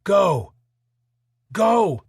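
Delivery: commanding shout; shouted order. Acted. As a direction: shout the civilians forward. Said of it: "shout an order".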